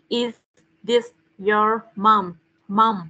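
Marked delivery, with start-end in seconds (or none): 0.9-2.3 "this your mom?" said slowly, "this" stressed, voice a bit louder; slow stressed model. Shown as a demonstration. Teacher correcting the pupil who said "is it", slow and stressed. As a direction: lean on "this" and stretch "mom". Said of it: "Đây là, is this".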